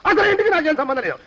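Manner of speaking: protesting, falling at the end; firmly disown any connection; agitated denial. Acted. Disowning any link with the house, agitated denial. Denying link, first of escalating takes.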